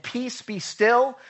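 slow, loud command to the storm; calm command. Retold or imitated. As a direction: rebuke the wind, slowly and firmly. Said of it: "He said".

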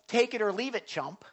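take-it-or-leave-it shrug; mock dismissive sorry. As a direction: brush them off with a sneer. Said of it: "that's like".

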